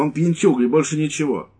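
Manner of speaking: high, loud contempt; scornful wife. Acted. Wife dismissing the prisoner, loud and scornful. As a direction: spit it out with contempt.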